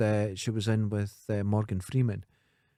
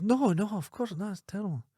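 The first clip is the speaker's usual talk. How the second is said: a lightly voiced little boy, higher; prim little boy refusing, higher; 8 semitones higher, 3 dB quieter than usual. Little boy in the joke refusing the van driver, higher.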